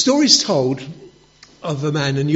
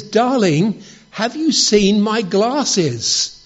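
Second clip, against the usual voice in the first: higher, louder and slow, drawn-out calling; husband standing right behind his wife, calling loudly and slowly; 5 semitones higher, 5 dB louder, much slower than usual. Retold or imitated. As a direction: call it out loud right behind her. Right behind her, loudest try.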